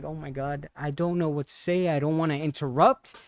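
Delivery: murmuring helplessly, not wanting to intrude; hushed to herself. Retold or imitated. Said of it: "I was like".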